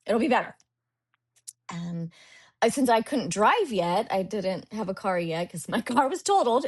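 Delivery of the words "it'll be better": mock self-pity. Acting out her resigned self-talk.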